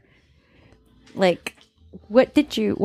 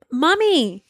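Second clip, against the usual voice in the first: whiny son quote; 3 semitones higher, much slower than usual. Retold or imitated. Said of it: "He's like".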